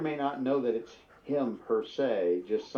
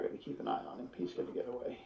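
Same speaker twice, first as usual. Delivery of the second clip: whispering; 12 dB quieter, faster than usual. Real, not acted. Aside muttered to the party.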